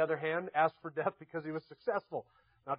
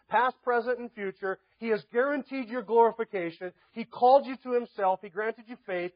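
raised-pitch sermon delivery, driving through a list; impassioned preaching; 4 semitones higher, 4 dB louder than usual. Real, not acted. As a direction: press each blessing home to the congregation. Preaches a rising list of blessings.

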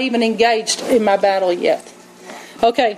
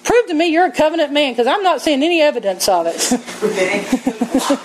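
mock rude challenge; 3 semitones higher than usual. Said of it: "He didn't go".

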